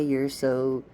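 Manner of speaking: slow, savoring the word happy; happy said slowly and drawn out. Shown as a demonstration. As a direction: stretch out happy lovingly. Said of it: "Don't you like the way I say happy?".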